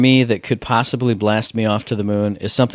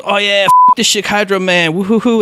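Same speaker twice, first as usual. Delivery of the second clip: much higher, louder party whoop; Joseph Ferris hyped; 9 semitones higher, 4 dB louder than usual. Retold or imitated. Presenter unmasked on stage cheering the audience, giddy mock whoop. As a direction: whoop it up like a presenter hyping the crowd. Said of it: "He goes".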